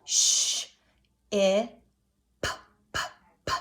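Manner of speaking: Sh, I, then p popped three times; segmenting ship. Shown as a demonstration. Teacher sounds out ship with children. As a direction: pop the p, p, p. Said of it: "Now do it with me".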